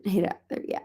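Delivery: soft whisper to the cat. Real, not acted. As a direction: whisper so you don't startle it.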